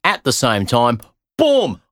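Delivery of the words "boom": high triumphant shout of "Boom!". Real, not acted. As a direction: slam the punchline home. Punchline of the paradox.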